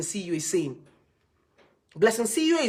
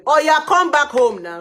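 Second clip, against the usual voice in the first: pleading parent; 8 semitones higher, 10 dB louder than usual. Retold or imitated. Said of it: "complaining to them".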